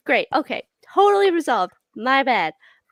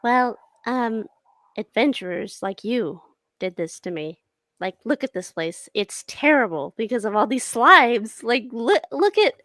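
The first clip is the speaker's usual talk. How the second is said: goblin woman complaining; 7 semitones lower than usual. Acted.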